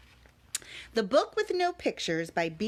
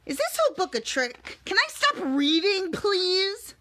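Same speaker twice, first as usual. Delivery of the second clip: mock pleading; 8 semitones higher, 4 dB louder than usual. Pleading to stop reading.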